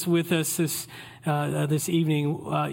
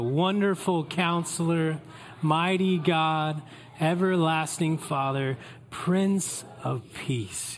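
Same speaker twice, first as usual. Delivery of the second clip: reading scripture aloud. Shown as a demonstration. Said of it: "Let's read this out loud one last time together".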